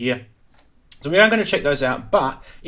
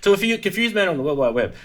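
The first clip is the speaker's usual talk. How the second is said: holding back laughter, faster; trying not to smile; 6 semitones higher, 3 dB louder, faster than usual. Real, not acted. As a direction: straight face barely kept. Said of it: "I'm supposed to keep a straight face here".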